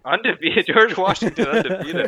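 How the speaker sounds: loud ring announcer hype; heroic rallying shout. Acted. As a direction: shout it like introducing the champ. Announcer introduces champion wrestler.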